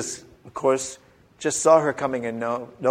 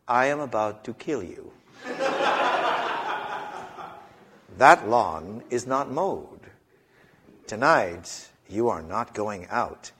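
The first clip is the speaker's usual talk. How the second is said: slowly; 2 semitones lower, 4 dB quieter than usual. Retold or imitated. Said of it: "would say to you slowly".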